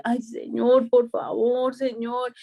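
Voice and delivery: mild mock whine; lightly acted begging prayer; imitating tearful pleading. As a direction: plead as if close to tears. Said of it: "clamaba como llorando".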